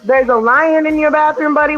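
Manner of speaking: retold questioning echo. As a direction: play along, querying the child's claim.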